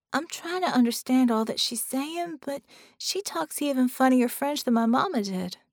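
put-on young girl, high and worried; little girl voice. A narrator's reading. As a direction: speak as an anxious little girl. Penny speaks.

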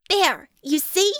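slow, triumphant gotcha. A narrator's reading. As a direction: savour the win, drawn out. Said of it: "Bella said triumphantly".

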